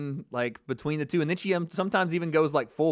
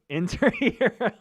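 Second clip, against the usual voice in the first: mock tattoo reading; 5 semitones higher, slower than usual. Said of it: "tattoo on his lower back saying".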